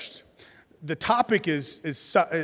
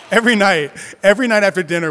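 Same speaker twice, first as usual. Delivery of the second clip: excited; 4 semitones higher, 10 dB louder, faster than usual. Real, not acted. Excited about dance parties.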